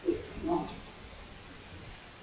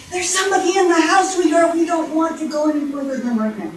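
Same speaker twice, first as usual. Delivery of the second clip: quick, high motherly warning; hurried higher mother-bear voice; anxious Mama Bear; 6 semitones higher, faster than usual. Acted. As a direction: rush to hold the little one back. Mama Bear holds back baby.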